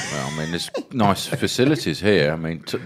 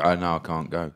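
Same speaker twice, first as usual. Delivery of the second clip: mock excuse; 5 semitones lower, 8 dB quieter than usual. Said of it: "then you go".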